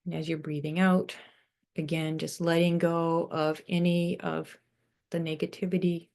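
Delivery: unhurried meditation voice with long pauses; guided meditation. Real, not acted. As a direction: guide them gently into breathing, leaving space between phrases.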